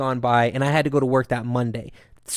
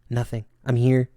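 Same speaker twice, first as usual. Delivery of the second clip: understated, resigned retelling; pessimistic, negative; 4 dB quieter than usual. Retold or imitated. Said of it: "I sounded pessimistic and negative".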